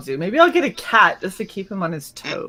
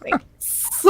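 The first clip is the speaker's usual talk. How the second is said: whispered deadpan thanks; 7 dB quieter than usual. Retold or imitated. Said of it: "I'm like".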